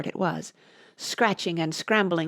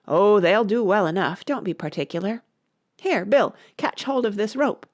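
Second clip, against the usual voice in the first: workers shouting; 2 semitones higher than usual. Acted.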